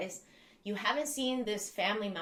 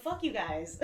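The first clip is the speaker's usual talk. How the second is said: laughing retort. Retold or imitated. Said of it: "I'm like".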